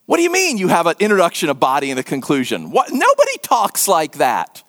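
mock disbelief at a crazy idea; incredulous listener. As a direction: object like a baffled bystander. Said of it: "would think she was crazy".

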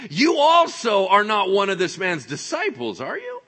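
high, loud challenge to a suspect; loud accusation. Acted. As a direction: call him out loudly, rising at the end. Acting out servant girl's accusation.

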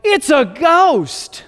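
high, slow cry of a frightened disciple; scared disciples. Acted. Disciples in the boat, terrified, high and slow. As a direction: gasp it out as if seeing a ghost. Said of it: "They look over and they go".

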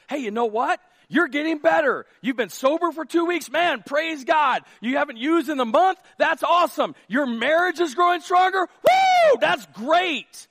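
high, loud celebratory praise with a whoop; cheering encouragement. Acted. Church member cheering a recovering addict, loud and joyful. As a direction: hype them up like a cheering friend.

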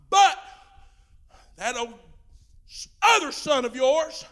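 resentful complaint with rising shouts; preacher acting out the older brother's angry grievance to his father. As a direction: whine it out like a jealous son who worked for nothing.

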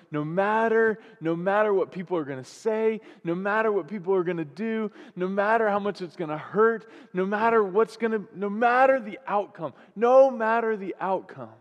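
insistent, climbing repetition; fervent sermon build; building preaching refrain. Real, not acted. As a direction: hammer each "no matter" toward a peak.

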